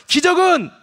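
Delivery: big, high shout of 기적은. Shown as a demonstration. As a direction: belt it out for the whole church. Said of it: "다시 한번 크게 좀 해봐요".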